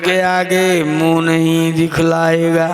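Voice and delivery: drawn-out devotional couplet, slightly lifted; slow verse recitation. Acted. Preacher recites a verse on death to the congregation, slow and lilting. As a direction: chant the lines slowly like a bhajan verse.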